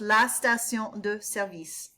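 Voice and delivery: "service" with the weight on its last syllable; "la station de service" with the end of "service" stressed; stress on the second syllable of service. Shown as a demonstration. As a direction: push the vis of "service". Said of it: "Emphasis on the second syllable with service".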